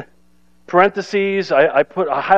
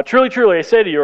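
higher, punchier truly truly; lightly emphatic Jesus; 3 semitones higher, faster than usual. Retold or imitated. Preacher to congregation, a hint of solemn emphasis. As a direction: announce it like a solemn formula. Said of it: "he says this a lot".

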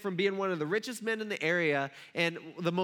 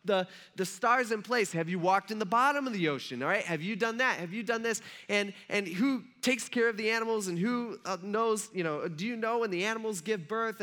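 raised-pitch volley of challenging questions; peppering with questions; 5 semitones higher than usual. Acted. God grilling Job with unanswerable questions, peppering him. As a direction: pile question on question, insistently. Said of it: "He just peppers them with all these questions".

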